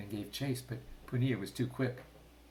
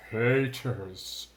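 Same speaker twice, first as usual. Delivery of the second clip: loud angry cry of betrayal; furious shout; 9 dB louder than usual. A narrator's reading. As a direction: bark it out at the traitors. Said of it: "the king shouted".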